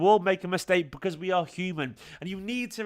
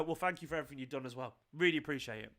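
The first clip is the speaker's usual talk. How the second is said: grateful; 3 semitones lower, 8 dB quieter, faster than usual. Pretend. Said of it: "but also go".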